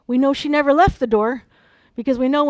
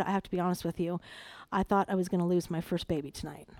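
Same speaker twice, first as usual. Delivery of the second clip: grave confession retold; 6 semitones lower, 10 dB quieter, faster than usual.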